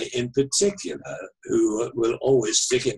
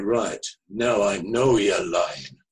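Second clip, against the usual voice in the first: slow, lower imitated Manchester caller; Mancunian accent; 6 semitones lower, slower than usual. Caller catching the author out, in a Manchester accent. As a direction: accuse slowly in a Mancunian accent. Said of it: "very distinctive Manchester, Mancunian, uh, accent".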